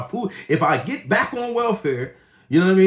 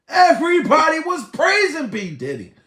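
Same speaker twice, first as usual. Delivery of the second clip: Everybody was praising a rapper, much higher and louder, stressing praising; loud emphatic repeat; 10 semitones higher, 4 dB louder than usual. Shown as a demonstration. Repeating it loudly to viewers, emphatic raised voice. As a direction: belt the repeat out.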